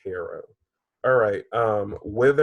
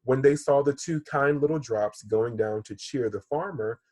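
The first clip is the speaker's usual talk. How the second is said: gently paced storybook read-aloud; story reading to children. Acted. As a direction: read it like a teacher telling a fable.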